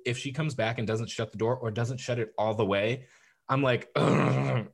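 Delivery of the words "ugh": drawn-out throaty groan; put-on groan of annoyance; irritated groan. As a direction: groan at being bothered. Retold groan when door left open.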